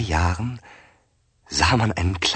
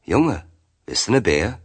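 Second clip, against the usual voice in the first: put-on higher, louder call to a boy; old man calling out; 3 semitones higher, 5 dB louder than usual. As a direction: offer it with a lifted, calling voice.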